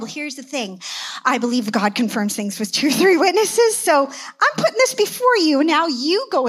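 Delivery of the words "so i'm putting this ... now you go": high, loud laugh through words. Real, not acted. Pastor laughing while handing the decision to the elder, laughing. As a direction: laugh as you hand it over.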